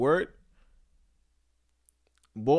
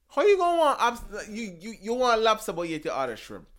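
much higher and louder, in disbelief; incredulous; 9 semitones higher, 7 dB louder than usual. Real, not acted. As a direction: squeak it out, baffled by the nonsense. Incredulous rant about mixed signals.

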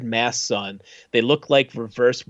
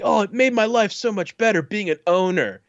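gushing testimonial, "owner" leaned on; raised pitch, pointedly emphasize "owner"; stress on "owner"; 7 semitones higher than usual. Retold or imitated. Happy customer in a sales video, stressing "owner". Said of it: "they just kept stressing that word".

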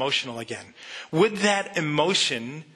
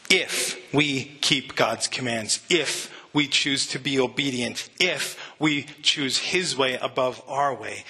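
"If" set apart at the start of each clause, slowly and deliberately; stress on IF; 2 semitones lower than usual. Shown as a demonstration. Preacher shows the church a massive word, stressing "if". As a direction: lean on each "if" and leave a beat after it. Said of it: "if" is a massive word".

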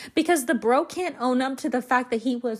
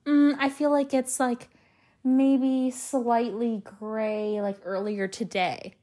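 slow, hedging dodge; mock evasive answer; slower than usual. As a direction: drag it out like dodging the question. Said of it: "you go".

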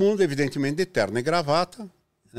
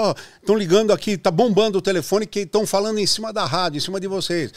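urgent; 7 semitones higher than usual. Retold or imitated. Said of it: "a telefonista falou".

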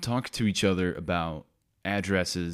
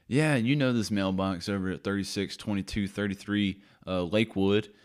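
put-on country accent. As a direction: imitate a carrier with a light country accent. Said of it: "I'm doing a country accent".

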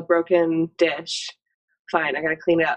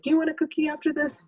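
sugary bribe; 11 semitones higher than usual. Retold or imitated. Mom bribing her toddler with a cookie, high sugary sing-song. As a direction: coax the toddler with a sugary mock treat offer. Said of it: "I try really not to be like".

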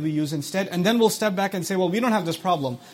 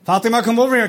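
put-on a parent calling a child across the house, louder; mother calling her daughter, raised voice; 2 semitones higher, 6 dB louder, faster than usual. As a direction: call out to Fatima like a mom. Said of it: "your children murmur back to you".

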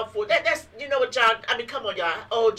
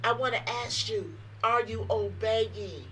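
preaching; 3 dB quieter, slower than usual. Real, not acted. Preaching to radio listeners.

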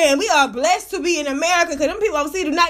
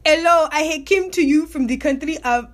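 hesitant attempt at an African accent. Shown as a demonstration. Podcaster testing her best African accent on listeners, badly faked African accent. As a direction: try on a shaky-confidence African accent, badly. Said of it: "do my best African accent".

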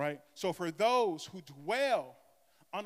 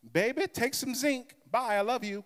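loving mother; 7 semitones higher, 5 dB louder than usual. Retold or imitated. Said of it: "in her loving way and very quick".

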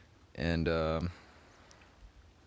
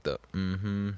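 mm-hmm sound; 3 semitones higher than usual. Shown as a demonstration. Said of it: "you got, like".

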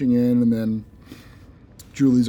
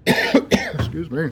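fake cough; 3 semitones higher, much slower than usual. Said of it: "It's so fake".

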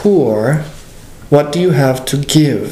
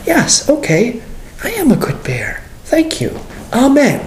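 glad acceptance; 4 semitones higher than usual. Acted. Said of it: "And then the response".

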